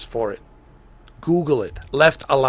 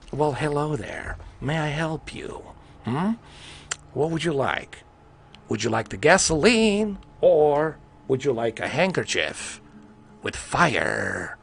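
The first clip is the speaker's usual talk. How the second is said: Joker voice. Acted. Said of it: "And then do the fucking Joker".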